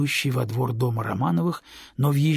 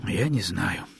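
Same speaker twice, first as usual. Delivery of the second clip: sighed; 6 semitones lower, 3 dB quieter, slower than usual. A narrator's reading. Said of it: "вздохнул он".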